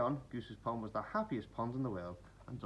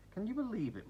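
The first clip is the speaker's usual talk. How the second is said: high disbelieving grumble; muttered; 11 semitones higher than usual. A narrator's reading. Frogs grumbling at Duck's hammering. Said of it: "muttered the frogs".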